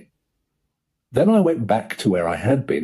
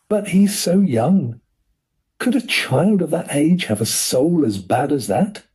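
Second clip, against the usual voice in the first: anxious; 8 semitones higher than usual. Acted. Corky worries over the portrait.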